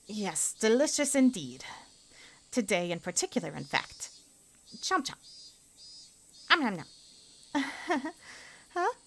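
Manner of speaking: put-on high, slow, sweetly forced girl's voice; bright high schoolgirl praising lunch through clenched politeness; girl character voice. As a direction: voice a girl faking enthusiasm. Same character chewing.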